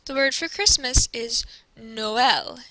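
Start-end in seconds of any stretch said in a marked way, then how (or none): 1.8-2.6 "Noël" in two syllables, O then E; both vowels sounded. Shown as a demonstration. Teacher showing what tréma does, both vowels sounded. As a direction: separate the O and E in "Noël". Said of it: "You hear the O".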